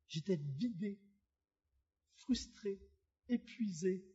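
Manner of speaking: low, soft, with long pauses; drained. Retold or imitated. Traveler recalling his late arrival at camp, drained. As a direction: let each word drop, worn out.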